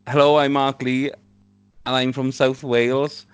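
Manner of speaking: half-hearted try at a thick Welsh accent; thick Welsh accent attempt. Shown as a demonstration. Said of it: "in your thickest Welsh accent".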